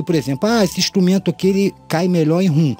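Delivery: ordinary talk, nothing marked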